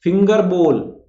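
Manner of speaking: फिंगर बोल with long 'o' in बोल; correct pronunciation. Shown as a demonstration. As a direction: round the vowel of बोल in फिंगर बोल. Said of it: "फिंगर बाउल नहीं".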